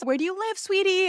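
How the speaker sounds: lightly mimicked chatty doctor, pitched high; sweet doctor. Imitates doctor's distracting small talk.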